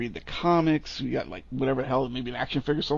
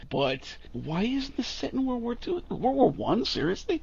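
much higher, climbing disbelief; rising higher with every outraged question; incredulous rant; 10 semitones higher, slower than usual. Real, not acted. Host ranting to co-host about the setting, climbing incredulously.

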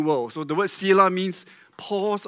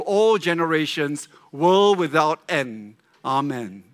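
congregation reading aloud together; many voices in unison. Real, not acted. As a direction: read it aloud as one. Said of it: "read it aloud together with me".

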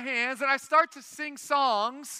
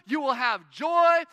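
emphatic shout; 5 dB louder than usual. Real, not acted. Preacher stressing his point.

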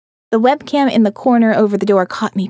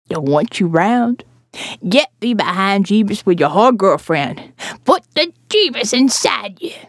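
put-on preachy old woman; 2 semitones lower than usual. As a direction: scold her like a bible-thumping neighbour.

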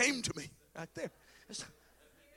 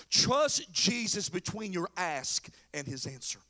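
measured point; 3 semitones lower, slower than usual. Real, not acted. First take of sermon point.

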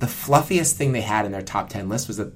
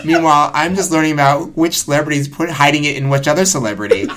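laughing; 3 semitones higher, 6 dB louder than usual. Retold or imitated. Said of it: "where I was like".

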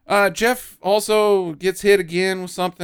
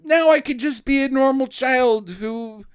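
mock innocent child; 6 semitones higher than usual. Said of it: "And he's like".

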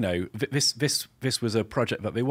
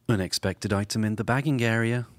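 self checkout prompts; 3 dB louder than usual. Pretend. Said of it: "Let's, let's all do a voice".

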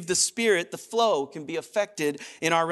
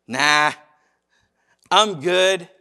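tag; 5 dB louder, much slower than usual. Acted. Casual refusal to God.

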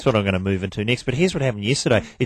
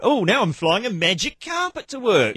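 higher, cheery parody of an ad voice; mock insurance ad; 12 semitones higher than usual. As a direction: oversell it like a TV commercial. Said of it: "in all the insurance company ads".

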